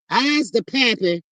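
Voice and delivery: slow, dopey mock of the ex saying "I's"; mocking his voice. Mocking the ex's boast in a slow dopey voice. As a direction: drag out a dumb-guy "I's the pappy" slowly. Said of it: "Is that what he's saying?".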